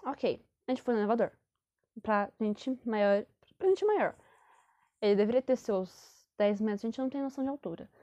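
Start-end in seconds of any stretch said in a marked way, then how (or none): 2.0-3.3 "Pra gente maior" drawn out very slowly. Shown as a demonstration. She tells viewers it was the ride for bigger people, slowly. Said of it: "repeated phrase". 3.6-4.2 "pra gente maior" jumps much higher; high emphatic. Shown as a demonstration. She repeats for viewers: the ride for bigger people, much higher. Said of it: "repeated phrase".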